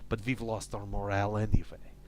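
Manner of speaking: a lightly done fake Eastern European accent reading the diary; bad Russian accent. Gamer reading crew member Pavel's diary entries aloud, in a light fake Russian accent. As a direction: read the log in a hammy Russian accent, only a hint of it. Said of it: "my bad, fake, slightly racist Russian slash Eastern European accent".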